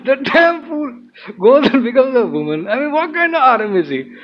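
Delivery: high-pitched, indignant mock tirade; upset ranting. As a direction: act out an exasperated rant, punching each complaint. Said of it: "very upset".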